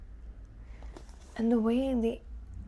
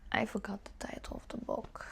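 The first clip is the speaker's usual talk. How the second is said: whisper; 6 dB quieter than usual. Real, not acted. Whispered aside about forgotten title.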